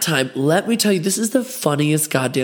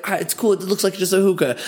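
reassuring self; 5 semitones higher than usual. Retold or imitated. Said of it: "but I was like".

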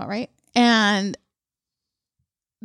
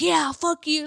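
higher-pitched imitation of a taunt; mock taunting; 5 semitones higher, 3 dB quieter, slower than usual. Winning fighter to the loser's family, mock taunt. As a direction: gloat lightly, without shouting. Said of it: "goes over there and taunts them".

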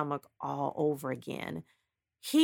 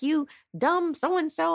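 retold insult; 9 semitones higher, slower than usual. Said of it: "I was like".

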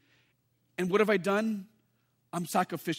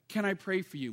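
soft, simple question, softer; a quiet, caring offer to pray; gentle offer to pray; 4 dB quieter than usual. Shown as a demonstration. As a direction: ask it gently, no pressure. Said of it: "just simply say".

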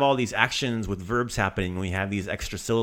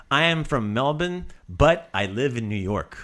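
bad Australian accent; 2 semitones higher, 3 dB louder than usual. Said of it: "pretend we're Australian with really bad Australian accents".

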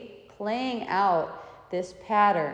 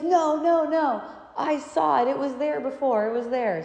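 insistent son; 6 semitones higher, 4 dB louder than usual. Retold or imitated.

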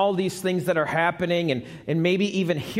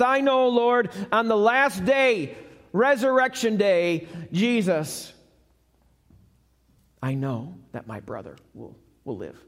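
sister's reply; 3 semitones higher than usual. Acted. Sister answers Jesus in story.

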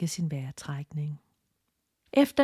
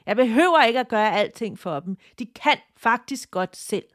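mild mock yell; 3 semitones higher, 4 dB louder than usual. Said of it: "Tina skreg tilbage".

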